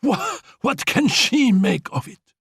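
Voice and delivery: angry outburst. Acted. Annette shouting at Félicie, high furious jealousy. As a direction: spit the accusation, shouting. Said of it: "flung the glass down angrily".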